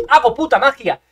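lively, emphatic brag; excited boast. Real, not acted. Gamer bragging about his play, excited boast. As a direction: boast it with punch.

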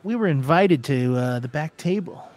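lightly voiced gambler, startled then settling; placating gambler. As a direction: talk the bouncer round, hesitantly.

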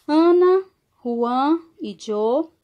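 "Ana" called out high and loud, "Juan e yo" slow; emphatic example. Shown as a demonstration. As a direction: announce the example, Ana hit hard.

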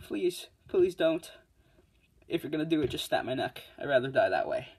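mock pleading. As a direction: beg for mercy in an overdone pathetic whine. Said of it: "I'm like".

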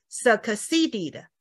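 succeeded as suh-kuh-see-ded; succeeded with the k fully voiced out as kuh; every sound released. Shown as a demonstration. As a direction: add a vowel after the k in succeeded. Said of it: "我没有办法念全部出来".

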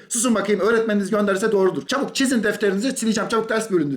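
imitating an annoyed teacher snapping at the class; teacher scolding. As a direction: hurry them along, mildly cross. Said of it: "Öğretmenleri bunlara kızdı".

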